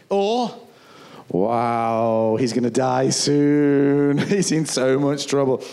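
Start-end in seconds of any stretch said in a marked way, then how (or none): 1.3-5.6 gleeful soldier. Retold or imitated. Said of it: "And they went".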